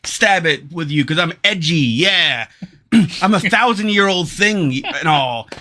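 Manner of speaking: mock menacing teen killer voice; edgy serial killer impression. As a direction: play a try-hard edgy killer. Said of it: "put on their best, like, uh, serial killer impression".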